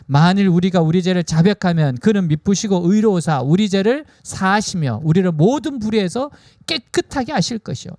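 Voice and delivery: measured, formal Bible reading voice; scripture reading. Acted. Preacher reading Corinthians aloud to the congregation, formal and measured. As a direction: read it out like a solemn proclamation.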